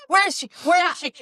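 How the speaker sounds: high, eager calling out; mock eager searching. Workshop members searching the room for the author, high and eager. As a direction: look round the room for her, high and keen. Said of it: "We're like".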